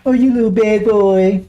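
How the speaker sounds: slow, teasing mock scold of a little boy; mock gentle scolding. Mocking how others picture the Messiah talking, slow cooing scold. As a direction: drag it out like you're cooing at a naughty child. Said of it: "Is that the way he talks?".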